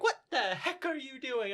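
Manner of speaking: high-pitched exasperation; incredulous protest. Retold or imitated. Fan scolding the dub for Sasha's accent, incredulous protest. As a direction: demand it in mock dismay.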